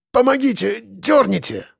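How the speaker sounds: high-pitched pained plea; moaning. A narrator's reading. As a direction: moan for help with the injury. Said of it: "стонал он". (со стоном, умоляя)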